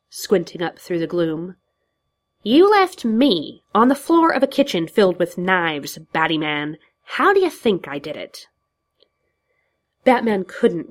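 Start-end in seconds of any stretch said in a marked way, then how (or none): 2.4-8.5 Joker voice. Acted. Joker taunts Batman.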